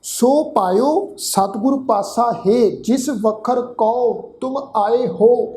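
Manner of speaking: slow, measured Gurbani recitation; drawn-out chanted recitation; scripture recitation. Shown as a demonstration. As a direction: recite the line slowly and devoutly. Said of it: "ਗੁਰਬਾਣੀ ਦਾ ਪਾਠ ਕਰਦੇ ਹਾਂ ਜੀ".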